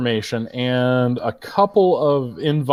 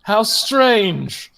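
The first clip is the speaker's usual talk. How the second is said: posh orc remark; 6 semitones higher, slower than usual. Acted. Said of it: "He's like".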